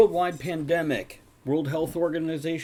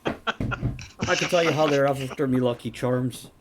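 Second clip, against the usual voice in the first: put-on Irish accent; slower than usual. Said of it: "with my Irish accent".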